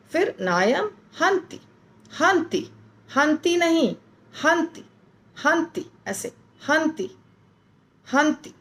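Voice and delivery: हंति barely noticed, quick and high; quick high demo. Shown as a demonstration. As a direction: flick out हंति fast and high. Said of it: "बोल भी दिया और पता भी नहीं चला".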